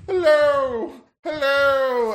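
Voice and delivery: high, grand royal hello; pompous prince saying hello; regal greeting. Acted. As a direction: greet the crowd like a pompous king. GM voices the regal wrestler.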